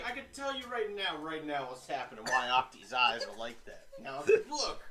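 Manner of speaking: put-on old-timey newsreel announcer; hint of a vintage radio host; 1930s radio announcer. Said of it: "Why are you a nineteen thirties radio announcer?".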